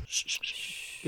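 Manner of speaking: long soft shushing hiss. Retold or imitated. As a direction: hush them quietly. Thierry hushing them.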